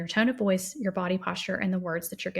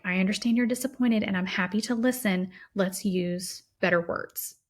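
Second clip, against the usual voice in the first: calm reassuring parent. Shown as a demonstration. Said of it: "Something else like".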